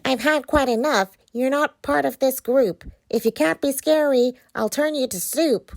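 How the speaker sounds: high threatening witch voice; menacing witch. Acted.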